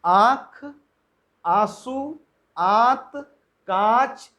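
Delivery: आँख, आंसू, आंत, कांच said slowly with nasalised vowels; pronunciation demo. Shown as a demonstration. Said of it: "देखें आप बोल करके ना". (अनुनासिक शब्दों का धीमा उच्चारण)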